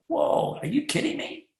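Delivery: lightly voiced astonished sceptic; mock disbelief. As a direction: play the scoffer who can't believe it. Mocking doubter of the telephone.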